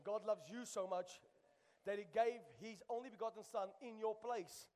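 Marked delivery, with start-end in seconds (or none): 0.0-1.2 God loves you so much, slow and deliberate; slowed repeat. Shown as a demonstration. Pastor repeats it slowly for the congregation to absorb. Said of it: "Let's say that again".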